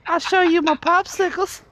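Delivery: put-on high, creepy old man voice. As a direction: lure him in like a creep.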